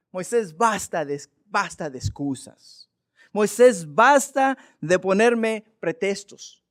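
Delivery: loud, slow firm rebuke; the Lord scolding Moses firmly; stern rebuke. Acted. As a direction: put a stop to the excuses.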